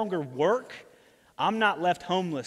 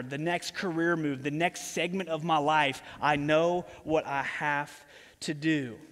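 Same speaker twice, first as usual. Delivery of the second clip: slow, lower, determined inner voice; 3 semitones lower than usual. Acted. Fired manager realizing his plan, slow determined hush. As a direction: let the plan dawn on him slowly.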